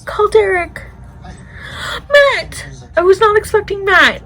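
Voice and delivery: high, loud startled outburst; excited shout. Real, not acted. Viewer yelling at a twist in the show, excited. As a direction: blurt it out, thrilled and shocked.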